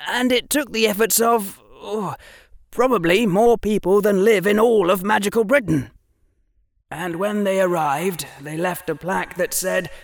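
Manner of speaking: a hint of a keen boy showing off; Harry explaining muggle pictures to Draco; young Harry. Harry voiced in reading.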